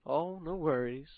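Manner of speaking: wizard voice. Acted. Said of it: "And then you hear a voice".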